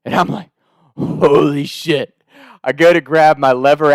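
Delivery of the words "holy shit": slow, drawn-out amazement; stunned. Retold or imitated. Hunter spots a big buck, stunned. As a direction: stretch it out in stunned disbelief.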